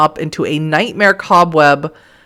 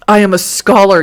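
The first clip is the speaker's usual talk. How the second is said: angry; 3 semitones higher, 6 dB louder than usual. Acted. Angry doctor retort.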